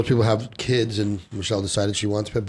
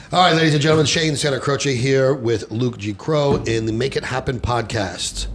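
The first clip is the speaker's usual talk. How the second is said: slow, measured announcer opening; podcast host intro; 3 semitones higher than usual. Acted. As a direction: present the show to the listeners.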